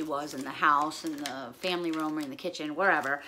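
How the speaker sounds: low, soft, wistful remembering; getting emotional. Real, not acted. Remembering mom who's not here anymore, getting emotional. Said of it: "I'm getting emotional because she's not here anymore".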